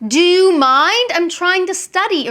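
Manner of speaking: irritated complaint at a noisy husband; scolding a husband for loud radio, annoyed. Pretend. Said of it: "my husband comes in and turns on the radio really loudly".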